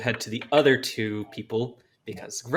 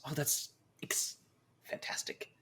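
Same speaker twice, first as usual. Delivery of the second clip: whispered awe; 13 dB quieter than usual. Acted. Adventurer whispering to the strange figures in awe. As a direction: breathe it out in awe.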